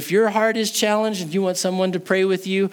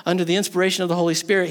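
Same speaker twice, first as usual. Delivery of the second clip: ordinary talk, nothing marked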